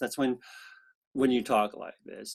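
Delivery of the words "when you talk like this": creaky, gravelly, low, rough vocal fry. Explaining what vocal fry is and demonstrating it: vocal fry. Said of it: "vocal fry ... you get this roughness in your voice".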